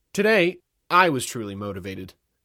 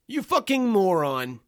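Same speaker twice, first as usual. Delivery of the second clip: higher-pitched, slow, scornful insult; angry insult; 8 semitones higher, 4 dB louder, slower than usual. A narrator's reading. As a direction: lean slowly into the insult as an irate man. Angry man insults the narrator.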